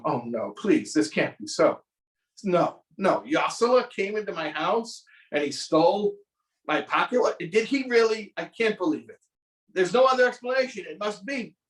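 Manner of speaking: dismayed disbelief. Retold or imitated. Rabbi's dismay voiced in story.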